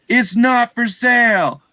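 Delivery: high, loud flat refusal; yelled refusal. Retold or imitated. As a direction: bark it out firm and final. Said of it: "And he just yelled at me".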